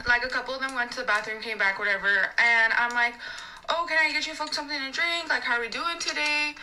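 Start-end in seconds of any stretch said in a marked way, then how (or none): 3.7-6.5 higher-pitched customer-service voice; server greeting. Retold or imitated. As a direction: greet the table like an obliging server.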